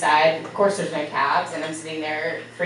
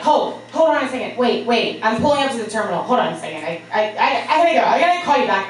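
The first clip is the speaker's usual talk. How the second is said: rushed and flustered; 3 semitones higher, faster than usual. Retold or imitated. Olivia rushing at terminal.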